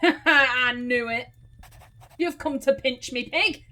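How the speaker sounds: loud, acted outrage; accusing farmer. Farmer accusing visitor of pinching his pig, loud indignation. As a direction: pounce on the thief with an accusation.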